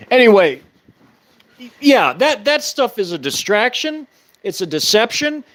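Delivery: talking around a lit cigarette; words through a cigarette between lips; cigarette in mouth. Real, not acted. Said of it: "Sorry, I gotta light a cigarette".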